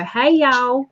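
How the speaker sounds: a mild try at a Southern American "Hey, y'all"; American accent. Retold or imitated. Streamer doing her only American line, a mild Southern drawl. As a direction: copy a friend's American greeting, lightly. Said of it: "copy Darcy and go".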